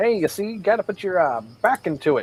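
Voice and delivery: shouting from a distance, as if another room. In the game, the character calls out to the cleric, yelling from another room. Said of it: "I yell from the other room".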